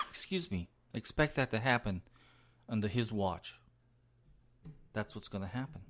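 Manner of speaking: hoarse, fading raspy voice; losing voice. Real, not acted. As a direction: talk through a voice that is giving out. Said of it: "Sorry, I'm losing my voice here".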